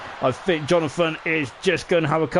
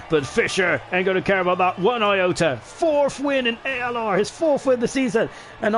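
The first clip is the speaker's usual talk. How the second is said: excited; 4 semitones higher than usual. Real, not acted. Hailing the winner's fourth win.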